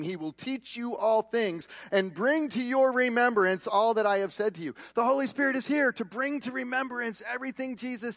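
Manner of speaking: emphatic scripture proclamation; preaching scripture. Acted. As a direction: declaim the verse and press it home.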